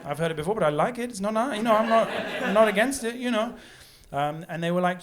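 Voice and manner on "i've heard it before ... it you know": awkward polite. Retold or imitated. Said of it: "and I was like".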